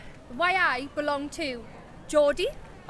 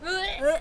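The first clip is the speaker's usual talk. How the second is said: short groan of disgust; disgusted ugh; 2 semitones higher than usual. Real, not acted. Woman recoiling at a word she hates, disgusted ugh. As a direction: let out a revolted "ugh".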